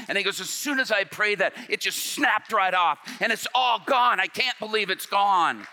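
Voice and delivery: retold joy. Inmate rejoicing after conversion.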